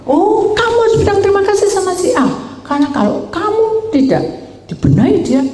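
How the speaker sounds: doctor telling the patient to thank his friend, high and lively; doctor's voice. Retold or imitated. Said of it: "Terus dia bilang".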